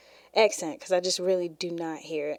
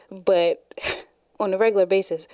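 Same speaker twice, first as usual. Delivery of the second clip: slipping lightly into a country accent; country accent switch. Shown as a demonstration. Demonstrating her accent switch to viewers, in light country. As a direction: let the country twang creep in on regular basis. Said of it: "see that switch there?".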